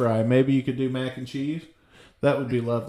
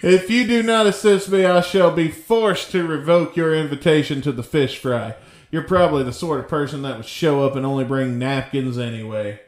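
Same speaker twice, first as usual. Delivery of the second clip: put-on huffy old man voice; 2 semitones higher than usual. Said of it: "an old man".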